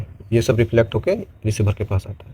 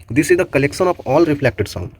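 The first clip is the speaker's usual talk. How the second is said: slow definition read; 2 semitones higher, much slower than usual. Acted. Reads definition slowly.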